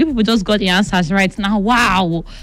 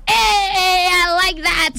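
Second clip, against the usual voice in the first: higher, bright burst of glee; light up at the name; cheering the listener's fun nickname; delighted; 7 semitones higher, much slower than usual. Real, not acted. Reacting to funny name Swagalomo.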